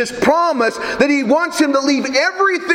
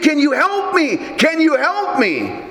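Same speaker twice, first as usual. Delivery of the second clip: higher-pitched mock plea for help; pleading; 5 semitones higher than usual. Fallen tourist begging heaven for help, acted pleading. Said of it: "The tourist pleaded".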